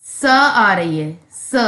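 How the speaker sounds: स hissed as a plain s; s sound. Shown as a demonstration. Teacher showing the s sound in surprise. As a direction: hold the s in स. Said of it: "इसकी sound".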